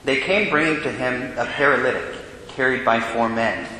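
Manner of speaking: solemn liturgical proclamation; Gospel reading. Acted. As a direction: read it like a deacon at the ambo.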